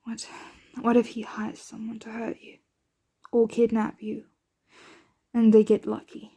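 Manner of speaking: hesitant, halting worry with long pauses; worried. Acted. Vampire fearing a loved one will be hurt, worried. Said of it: "can't help but worry myself".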